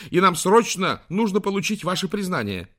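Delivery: high, loud, pressing; contained shout. Acted. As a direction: demand it, nearly yelling. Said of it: "почти кричала Мартин". (почти крик, с нажимом)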